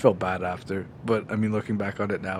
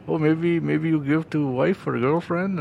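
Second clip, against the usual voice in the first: higher, slow, broken English sales pitch; imitating a pushy mall seller; 6 semitones higher, slower than usual. To a shopper, a mild imitation of the pushy seller. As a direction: lightly mimic the seller coaxing.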